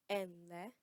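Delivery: "Enle" said clearly with a rising tune; teacher models "Enle" for an elder, rising; Yoruba greeting enle. Shown as a demonstration. Teacher models a respectful greeting, slow and clear. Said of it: "Repeat after me".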